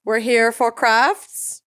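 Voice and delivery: put-on slow, drawn-out upstate New York accent; playing upstate New York locals, slow. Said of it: "I don't know why we're doing this accent".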